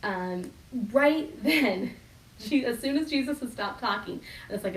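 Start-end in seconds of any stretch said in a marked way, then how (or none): 0.9-1.9 "right then" lifted higher, leaning on "right"; stress right then. Shown as a demonstration. Pastor repeating his point about right then. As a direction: hit "right" up high. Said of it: "then is a preposition".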